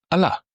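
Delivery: Allah said a-LA, final a stressed; stress on final syllable. Shown as a demonstration. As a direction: hit the end of Allah. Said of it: "in the sense of but, the word but".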